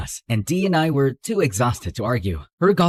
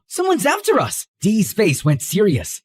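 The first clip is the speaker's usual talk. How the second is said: usual speaking voice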